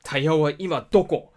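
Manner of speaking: instructor asking. Retold or imitated. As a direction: quiz the student sharply. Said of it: "And he was like".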